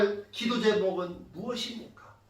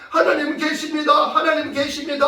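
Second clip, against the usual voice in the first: mildly raised, higher recitation; recited declaration; 4 semitones higher, 3 dB louder than usual. Retold or imitated. Child writing the line fifty times, emphatic recitation. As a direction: repeat it firmly, like a written line.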